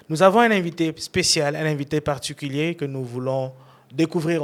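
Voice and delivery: upbeat presenter announcing the guest; show host intro. Acted. Host welcoming viewers and announcing his guest, upbeat presenter style.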